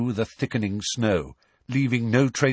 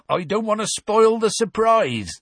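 bright, high, louder glee; happy; 13 semitones higher, 5 dB louder than usual. A narrator's reading. Hagrid teasing the three about his creature, happy and high. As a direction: delight in keeping a secret. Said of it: "said Hagrid happily".

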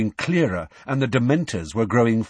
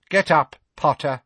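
Snape voice; 6 semitones higher, 4 dB louder than usual. A narrator's reading.

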